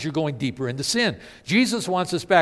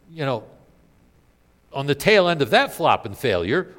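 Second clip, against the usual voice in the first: tempting snake; 2 semitones higher, 4 dB louder than usual. Retold or imitated. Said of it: "the snake says".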